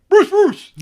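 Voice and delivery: high, loud mock holler; hammed-up excited call. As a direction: imitate someone yelling a name across a crowd. Imitating someone calling out in recognition.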